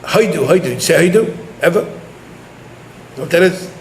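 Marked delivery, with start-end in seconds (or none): 1.8-3.7 slow, hushed whisper. Real, not acted. Teacher whispering a question to his young students. Teacher quizzing children on Hodu.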